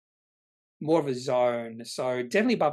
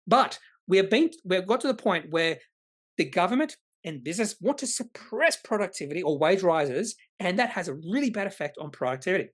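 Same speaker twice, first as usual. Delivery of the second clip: heated rant; 3 semitones higher than usual. Real, not acted. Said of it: "Rant ended".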